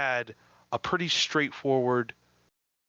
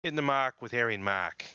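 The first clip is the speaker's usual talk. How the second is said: put-on butchered New York Boston accent; 2 semitones higher, faster than usual. Host announcing the show name in a fake New York Boston accent. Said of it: "butchered New York Bostonian accent".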